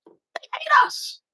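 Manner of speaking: whispered, slow and secretive. Acted. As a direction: breathe it out slowly, barely voiced. Echo of the line before.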